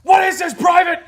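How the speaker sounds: high loud barked shout; drill sergeant shout. Retold or imitated. Drill sergeant confronting a private, loud high shout. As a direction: bark it at the recruit.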